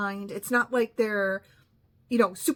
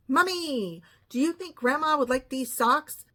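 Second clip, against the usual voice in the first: put-on lightly childlike voice of a woman calling her mother; a touch of baby talk to Mommy; childish grown woman; 3 semitones higher than usual. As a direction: mimic the grown daughter's little-girl tone. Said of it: "that is how she said it".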